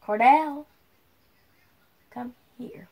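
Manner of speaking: stern mom calling her son. Pretend. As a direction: call him like a strict mother. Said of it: "put my mom voice on".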